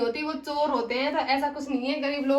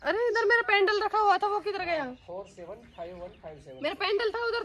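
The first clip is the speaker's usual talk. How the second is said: alarmed searching; 3 semitones higher than usual. Acted. Employer hunting for her missing pendant, alarmed. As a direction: demand to know where it went.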